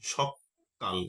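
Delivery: সকাল with a held double k; সকাল, k doubled and held. Shown as a demonstration. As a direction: lean on the kk in সকাল. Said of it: "এই ক ছিল একটা ... double হয়ে গেছে".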